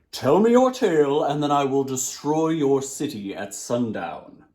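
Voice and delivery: djinn demands. Acted.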